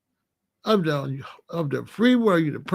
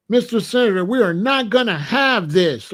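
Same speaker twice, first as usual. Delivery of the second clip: firm church lady. Retold or imitated. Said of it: "like that".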